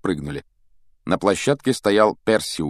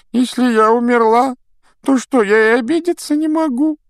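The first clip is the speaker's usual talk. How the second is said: put-on whiny ghost girl; 8 dB louder than usual. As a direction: whine like a wronged ghost girl. Myrtle aggrieved.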